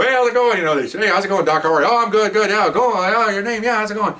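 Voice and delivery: high-pitched, breezy back-and-forth hellos; jovial greetings. Retold or imitated. Officer and doctors swapping hellos, jovial.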